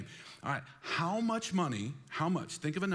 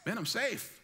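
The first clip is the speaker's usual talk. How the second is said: mock contented saver; 3 semitones higher than usual. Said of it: "where you're like".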